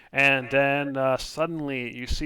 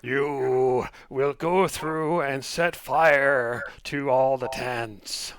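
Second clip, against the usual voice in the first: menacing fortune teller; 4 dB louder, slower than usual. Acted. GM voices fortune teller's demand.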